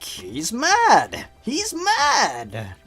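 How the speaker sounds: high, rising panicked repetition; mock frightened Eggman. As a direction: squeak it like a scared villain. Eggman voiced in story.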